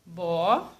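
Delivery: "Bola" as a stretched bo, long pause, then la; syllable by syllable. Shown as a demonstration. Teacher asking pupils to think, bola said syllable by syllable. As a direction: pull "Bola" apart into two slow pieces. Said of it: "vai ficar assim".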